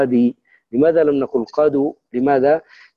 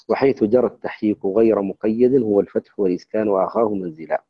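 measured chanting of the poem line; chanted recitation of a teaching poem; verse recitation. Acted.

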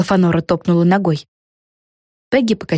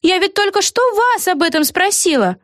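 very high, merry reply; cheerful witch; 13 semitones higher than usual. A narrator's reading. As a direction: answer breezily. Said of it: "весело ответила Эгги".

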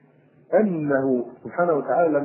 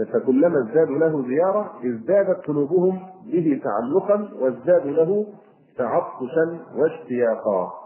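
measured reading of classical Arabic verse; verse recitation. Acted. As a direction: recite it line by line, drawing out the endings. (إلقاء شعر فصيح بتأن)

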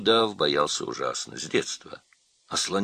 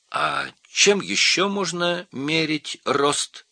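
high, slow, loud monkey voice; squeaky, eager monkey question; curious monkey; 10 semitones higher, 5 dB louder, slower than usual. A narrator's reading. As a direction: ask it high and drawn-out.

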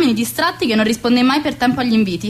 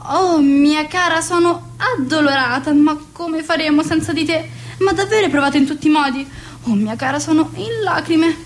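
gushing mock sorrow; 4 semitones higher than usual. Hostess consoles a cancelling guest she is glad to lose, gushing mock sorrow.

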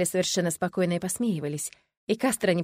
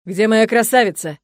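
loud, slow thundering call; booming scary voice; 3 semitones higher, 11 dB louder than usual. Acted. Monster father calling for his daughter, booming. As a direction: roar it through the whole castle. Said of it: "прогремел страшный голос".

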